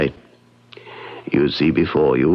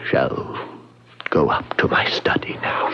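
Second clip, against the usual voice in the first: whispered farewell; 2 semitones lower than usual. Acted. Leaving to end his life.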